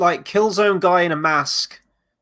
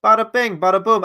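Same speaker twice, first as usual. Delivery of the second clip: Italian New Yorker; 5 semitones higher than usual. Retold or imitated. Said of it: "otherwise it doesn't sound like Italian New Yorker".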